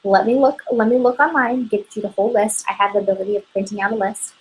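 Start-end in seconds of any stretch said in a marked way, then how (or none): 0.0-2.6 beam at the customer's question; eager answer demo. Shown as a demonstration. Consultant demonstrates the right answer, glad and helpful. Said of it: "no, I say".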